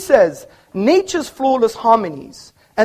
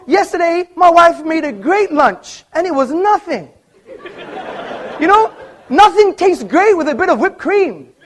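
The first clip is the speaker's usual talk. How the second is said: mocking laugh; 7 semitones higher than usual. Real, not acted. Mocking joke, audience laughing.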